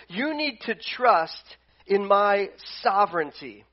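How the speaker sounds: a hint of a firm God reassuring; lightly voiced God answering complainers, slow; God speaking. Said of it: "And God's going".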